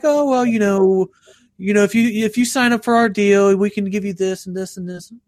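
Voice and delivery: lightly mock a rambling salesperson; sales caller. Caller offering a deal to a prankster, mock sales voice. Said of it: "they're like".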